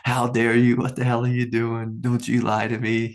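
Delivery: mock angry parent, half-played; imitating his own furious outburst, lightly; retold fury. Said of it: "with some fury".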